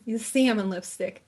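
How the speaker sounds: put-on salmon in a New Jersey accent, siamon. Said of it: "That's my New Jersey accent".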